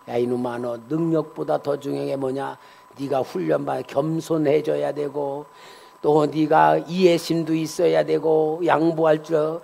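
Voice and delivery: hushed, low divine reproof; God admonishing. Retold or imitated. Acts out God admonishing the preacher.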